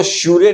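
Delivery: श्यूरे in two syllables, "shyoo-ray"; long yoo, then a voiced ending in श्यूरे; wrong spelling reading. Shown as a demonstration. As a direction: say श्यूरे with the final e sounded. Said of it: "नहीं बोलेंगे".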